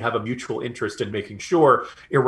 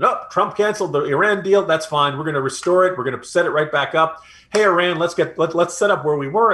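mock breezy confidence; 5 semitones higher, 4 dB louder than usual. Voices Biden administration's breezy attitude.

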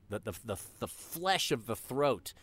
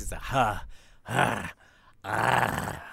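throaty growl demo; 4 semitones lower, much slower than usual. Shown as a demonstration. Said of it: "with growls and things".

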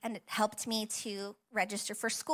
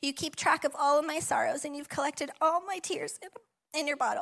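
reading through tears; 3 semitones higher, 3 dB louder than usual. Real, not acted. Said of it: "I don't know why I'm still crying".

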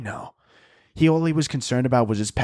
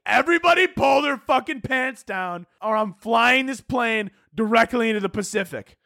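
hammed-up pilot losing it, pitched way up; mock furious shout; 9 semitones higher than usual. Armed pilot threatening all the passengers, hammed-up furious shout.

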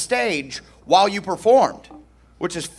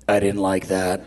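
stern general voice; 11 semitones lower, 3 dB quieter than usual. Retold or imitated. General's stern reply, retold.

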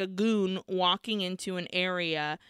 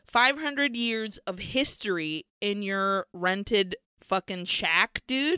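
judgmental. Retold or imitated. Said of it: "very judgmentally, is like".

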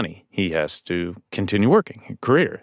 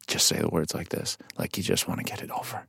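hushed instruction; 6 semitones lower, 12 dB quieter than usual. Retold or imitated. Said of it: "I remember Terry going".

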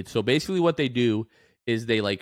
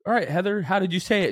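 calm; 8 semitones higher, faster than usual. Retold or imitated. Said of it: "So I was very calm".

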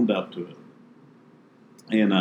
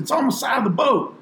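1 cheeky reply; 13 semitones higher than usual. Retold or imitated. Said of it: "I said".

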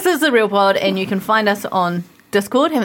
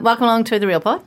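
mouth full; 2 semitones lower than usual. Real, not acted. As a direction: mouth coated in chocolate. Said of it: "I've got chalky in my mouth".

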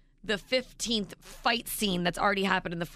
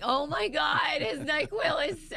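higher, slow exasperation; exasperated; 8 semitones higher, slower than usual. Retold or imitated. Wife can't wake husband, higher exasperated. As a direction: throw up hands, higher. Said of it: "I'm like".

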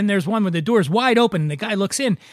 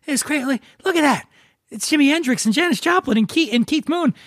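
excited fan; 7 semitones higher than usual. Acted. Awed dead fan in heaven.

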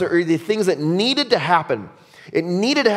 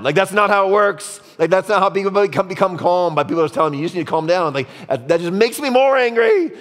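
hammed-up worked-up protest, building higher and louder; comic exasperation; 4 semitones higher, 3 dB louder than usual. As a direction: protest as if being soothed makes it worse. Re-enacts exasperation at being told calm down.

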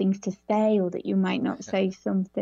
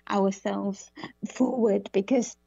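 choking, slowed words; slow as a drink goes down wrong. Real, not acted. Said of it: "I'm choking now".

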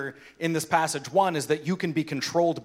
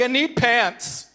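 put-on slow, higher, dazed little girl; sleepy child voice; 8 semitones higher, 5 dB louder, much slower than usual. Father voicing his sleepwalking daughter, dazed and slow. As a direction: voice the half-asleep daughter, slow and high.

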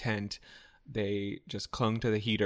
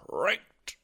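high squeaky; 9 semitones higher, 3 dB louder than usual. Pretend. Echoing cranked in silly voice.

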